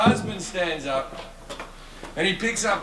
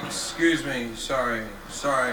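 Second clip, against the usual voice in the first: awkward apology; 6 semitones lower than usual. Retold or imitated. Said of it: "he just leaves awkwardly".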